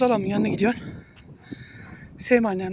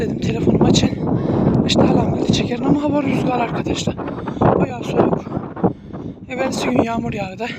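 raised voice against the wind; shouting over wind. Real, not acted. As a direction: call out over the gusts. Talking outdoors in strong wind.

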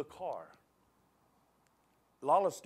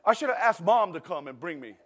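laughing quote; 5 semitones higher, 11 dB louder than usual. Retold or imitated. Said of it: "She said".

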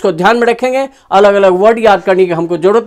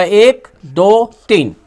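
counting syllables; much slower than usual. Shown as a demonstration. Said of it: "इसका तीन खंड होगा".

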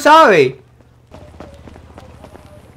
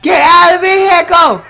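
shouted order; 5 semitones higher than usual. Real, not acted. Ordering NPC out of car.

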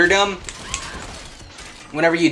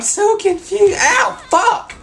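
much higher, laughing as he yelps; 4 dB louder, slower than usual. Real, not acted. Player getting shot mid-game, laughing high yelp. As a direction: squeal it out through laughter.

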